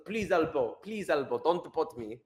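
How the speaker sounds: mock plea in attempted Afrikaner accent. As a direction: beg with a rough try at Afrikaner. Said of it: "how do I do an Afrikaner accent".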